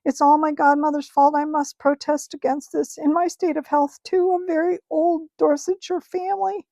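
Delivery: a terrified uncle pleading his innocence; high, wailing complaint. Acted. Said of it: "was a wailing".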